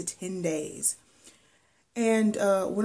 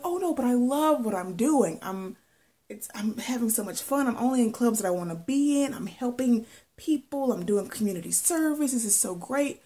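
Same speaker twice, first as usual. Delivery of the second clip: imitated gushing defence, pitched up; enthusiastic protest; 4 semitones higher than usual. Student insisting to her therapist she loves her clubs, gushing. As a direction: gush over it to brush off the concern.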